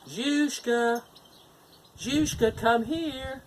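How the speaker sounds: high, loud call to the dog. Acted. Granddaughter calls the dog over to help, high loud call. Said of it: "called the dog over to help".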